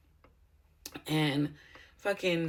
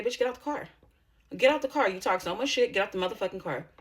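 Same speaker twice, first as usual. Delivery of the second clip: angry yelling; 3 semitones higher than usual. Retold or imitated. Daring the sister to get out of the car, angry. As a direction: call her out of the car.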